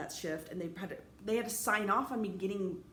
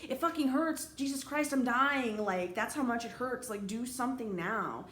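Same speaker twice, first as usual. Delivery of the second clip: acted desperate plea, raised at first then slowing; mild re-enacted agony, easing down in pitch; retold pained crying; 3 semitones higher, slower than usual. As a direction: plead through pain, without real sobs. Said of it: "I'm just crying and crying".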